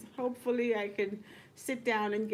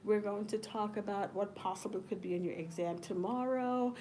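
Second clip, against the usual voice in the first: stiff professor; 4 dB quieter than usual. Pretend. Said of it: "Y'all would think, like, I'm sedated".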